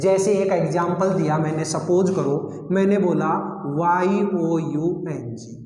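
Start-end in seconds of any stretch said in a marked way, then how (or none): 3.8-5.6 slow, letter by letter spelling. Shown as a demonstration. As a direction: spell each letter slowly for the class. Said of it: "देखिएगा यंग".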